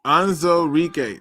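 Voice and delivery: "Onwuzurike" said slowly and evenly; measured, careful "Onwuzurike" with a falling end; practised name. Real, not acted. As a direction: deliver "Onwuzurike" slowly, every syllable placed. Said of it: "That's how you say it?".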